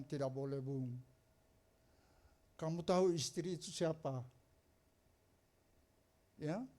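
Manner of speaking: soft, low firm warning; low-voiced gentle scolding; quiet rebuke. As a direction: hush him down firmly. Pastor rebukes man gently.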